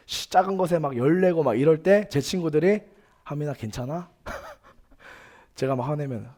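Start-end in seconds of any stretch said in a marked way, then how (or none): 3.2-4.1 quiet, comforting retold voice; soothing friend. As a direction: softly check on an upset friend. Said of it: "다독여주고".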